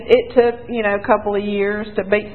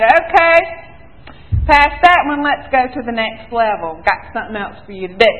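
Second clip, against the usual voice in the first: booming start, then easing into an offhand God voice; voicing God. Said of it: "God said".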